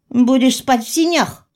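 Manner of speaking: indignant warning, pitch up; angry threat. Acted. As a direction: shut him down sharply. Heroine threatens man with her fist.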